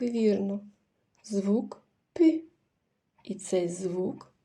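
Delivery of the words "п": "п" alone, short and palatalised; soft consonant sound. Shown as a demonstration. Teacher gives children the first sound, soft "п". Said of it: "м'який приголосний".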